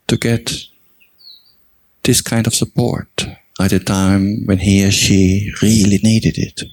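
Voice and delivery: measured meditation guidance with long pauses between phrases; guided meditation. Real, not acted. Teacher guiding meditators to recall their own generosity, unhurried meditation delivery. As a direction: guide them gently through the reflection, phrase by phrase.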